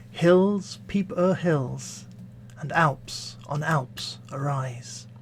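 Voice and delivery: measured verse reading with weighty pauses; poetry recitation. Acted. Reading a stanza from Essay on Criticism to listeners, poetry recitation. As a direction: recite it deliberately, slowing into the last line.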